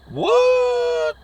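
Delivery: high, drawn-out disbelieving what; shocked what. Acted. Hillbilly hearing he must hunt monsters, high shocked what. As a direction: squeal it out in disbelief.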